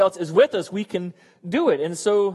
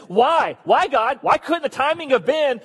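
pitched-up, insistent protest; exasperated questioning; 5 semitones higher, slower than usual. Acted. Believer asking God about the timing, exasperated. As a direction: plead for an explanation, voice rising.

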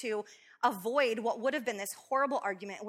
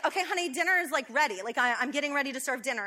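impatient call; 4 semitones higher, 5 dB louder than usual. Retold or imitated. Calling husband again, impatient.

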